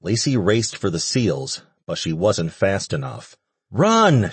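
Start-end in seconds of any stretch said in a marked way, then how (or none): 3.7-4.3 sharp high urgent shout; urgent high-pitched cry. A narrator's reading. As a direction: yell a warning to run. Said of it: "she shouted".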